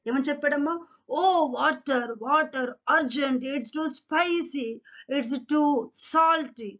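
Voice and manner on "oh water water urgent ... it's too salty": higher-pitched, lightly acted urgent complaint; mock exclamation. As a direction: exclaim like a king wanting water, without shouting. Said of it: "Who shouted like this? The king shouted".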